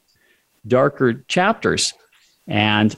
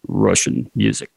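put-on Russian accent; 4 semitones lower than usual. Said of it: "in a deep Russian accent".

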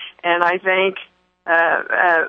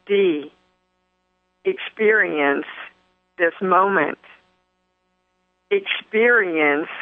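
gentle inner voice. Retold or imitated. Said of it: "our wonderful voice said".

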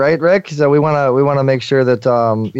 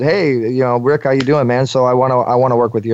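casual. Shown as a demonstration. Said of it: "your vocal tone was kinda casual".

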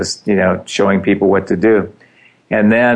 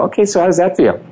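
lightly raised question; 10 semitones higher, faster than usual. Retold or imitated. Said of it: "I go".

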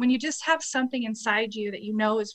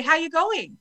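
Australian saying; 6 semitones higher than usual. Retold or imitated. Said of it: "They say".

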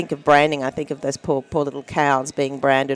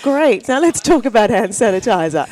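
feigned interest; 3 semitones higher than usual. Retold or imitated. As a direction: fake enthusiasm, then a quick subject change. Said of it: "feign interest".

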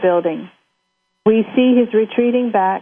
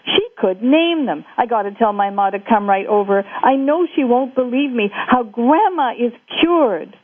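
put-on excited boy; 4 semitones higher than usual. Jake thrilled about grandma.

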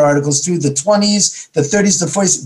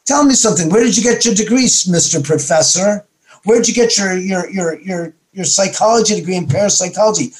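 raised, scornful questioning; mocking challenge; 2 semitones higher than usual. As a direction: sneer the questions at him. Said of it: "He said".

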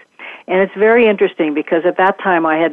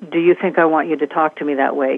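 gentle, fully present question. Shown as a demonstration. Speaker demonstrates a non-defensive question to listeners, gently. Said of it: "my voice is present, but it's very gentle".

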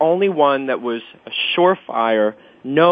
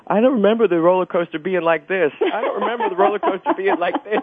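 nervous; 6 semitones higher than usual. Retold or imitated. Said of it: "I kept hearing her say".

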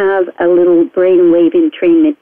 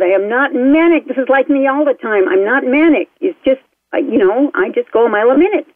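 higher, quick mock-indignant protest; mildly defensive, raised pitch; retold protest; 4 semitones higher than usual. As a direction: protest your case, lightly acted. Retold protest to her psychiatrist.

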